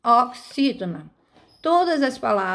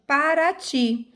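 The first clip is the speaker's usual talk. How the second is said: Paraty with a long final TY; slow Paraty, leaning on the end; stress on last syllable; 3 semitones higher, slower than usual. Shown as a demonstration. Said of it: "A tônica é a última sílaba".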